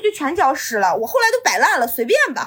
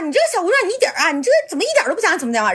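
higher-pitched, hurried telling-off; imitated scolding; 5 semitones higher, much faster than usual. Older man scolding the young tenant, imitated. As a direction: mimic a rushed scolding. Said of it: "然后他就开始骂我".

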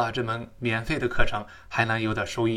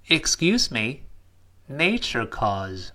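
model phrase; much slower than usual. Shown as a demonstration. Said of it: "我们可以先这么来说".

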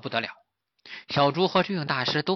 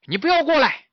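high, loud piglet warning; warning shout; 13 semitones higher, 6 dB louder than usual. Acted. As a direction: order the tiger to keep back. 小猪警告靠近的老虎. (小猪高声喝止)

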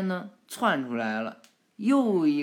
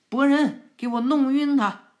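much higher and louder yell; big shout; 9 semitones higher, 9 dB louder than usual. Acted. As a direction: roep het wanhopig over het veld. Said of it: "他就大喊".

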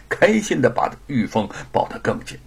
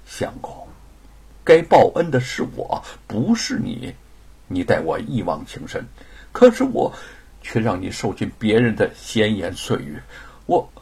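grateful wife. Acted. Wife answers husband's tender confession, earnest.

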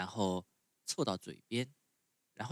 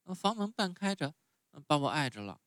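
put-on much higher, whiny little boy; puppet boy voice; 7 semitones higher, 4 dB louder, faster than usual. A narrator's reading. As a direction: sulk like a spoiled child refusing medicine. Pinocchio voiced in story.

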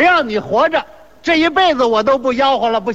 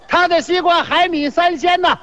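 raised hawker's pitch; mock vendor's cry; 4 semitones higher than usual. Seller matching absurd praise of rival's melon, raised vendor's cry. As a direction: tout it high like a street seller. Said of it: "互相夸".

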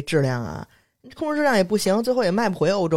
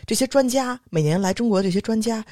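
high, mocking imitation of the boss; mocking quote; 6 semitones higher than usual. Mimicking her boss fretting over the European experts, pitched up. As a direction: mimic his fussing about the experts, pitched up.

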